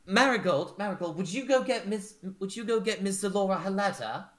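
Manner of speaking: high, quick anxious request; hurried maid. Acted. Nancy urging Marigold to fetch the letter, high and fast. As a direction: rush the order out.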